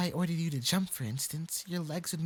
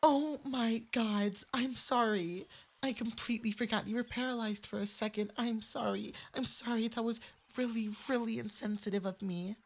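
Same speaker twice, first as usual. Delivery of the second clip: higher, embarrassed rush of sorries; flustered apology; 5 semitones higher than usual. Acted. Fox boy realizes he forgot the listener is paralyzed, flustered. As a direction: catch yourself and apologize in a fluster.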